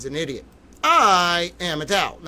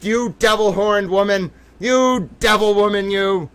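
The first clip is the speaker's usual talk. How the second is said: mock taunting; 4 semitones higher, 6 dB louder than usual. Real, not acted. Shouting at photo on screen.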